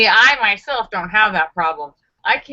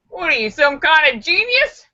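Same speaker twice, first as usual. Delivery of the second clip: higher, incredulous rising question; mock admirer; 7 semitones higher than usual. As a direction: play an amazed stranger asking. Acted admirer's quote in bit.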